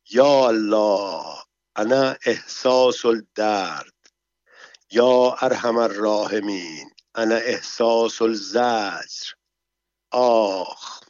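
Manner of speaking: slow, drawn-out mock groans of a woman in labour; thin-voiced moaning. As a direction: moan pitifully in a thin voice, hamming up the pain.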